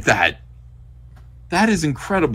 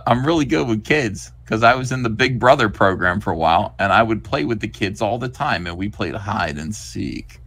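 creepy groomer. Acted.

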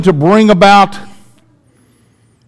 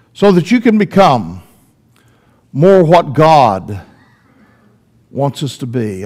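tender God voice. Retold or imitated. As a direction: speak as a gentle loving father. God voiced speaking to individuals.

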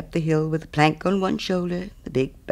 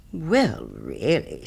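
affronted; much slower than usual. Acted. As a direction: act put out, letting the pitch sink. Miller affronted by hesitation.

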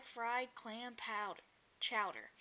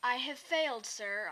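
sobbing; 5 dB louder than usual. Acted. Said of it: "I sobbed as I made my report".

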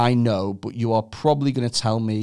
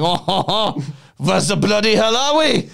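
French bee; 7 semitones higher than usual. Retold or imitated. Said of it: "were like".

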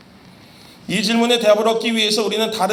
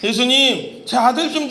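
higher, louder desperate cry for help; father's pleading shout; 6 semitones higher, 5 dB louder than usual. Retold or imitated. Father crying out to Jesus for his son, loud plea. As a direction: call out to Jesus like a frantic father. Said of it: "막 소리 지르면서 나아갔어요".

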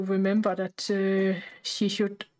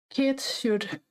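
breathless, catching air; out of breath. Real, not acted. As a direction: talk while short of breath. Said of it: "I just got really out of breath there".

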